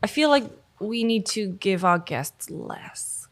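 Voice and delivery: hushed unvoiced whisper, slowed down; whispered aside. Real, not acted. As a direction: lean in and whisper it behind his back. Whispered aside about the guest.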